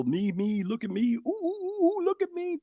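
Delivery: high, preening look-at-me voice; mock show-off. Mocking people posting fake happy lives: high, squealing show-off. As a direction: camp it up like a social media attention seeker. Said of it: "the whole ... thing".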